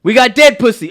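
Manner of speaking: loud, high burst of a quoted line; yelling the movie line out loud; mock shouted line. Friend retelling a film quote, shouting it.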